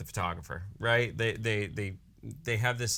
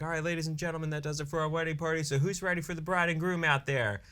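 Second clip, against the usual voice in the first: lightly voiced wedding MC, pitched higher; retold crowd hype, raised pitch without extra volume; hyping up the crowd; 5 semitones higher, faster than usual. Wedding DJ readying guests for the bride and groom, hyping up the crowd. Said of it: "I hype up the crowd".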